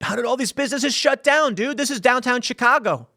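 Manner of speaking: high, incredulous exclaim; retelling his own shock, pitched well up; stunned disbelief. Retold or imitated. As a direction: ask it like you can't believe your eyes. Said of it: "and I'm like".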